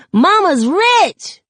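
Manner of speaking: put-on high, slow, loud kid shout. Little Sakani cheering at Mama's news, high slow shout. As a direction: belt it out in pure delight, stretched slow. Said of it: "while Sakani shouts".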